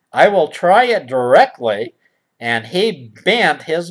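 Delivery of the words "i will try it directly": stilted storybook speech. Acted. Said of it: "Who talks like that".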